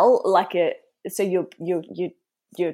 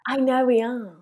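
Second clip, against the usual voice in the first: whisper; 4 semitones higher than usual. Real, not acted. Whispered aside about age.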